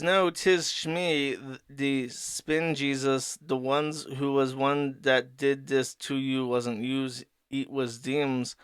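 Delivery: slow, lightly voiced cartoon cat; fat cat character. Spingle Cat answering the dad, lightly voiced slow cat. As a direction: draw the words out as an odd cat. Acts out the cat's odd speech.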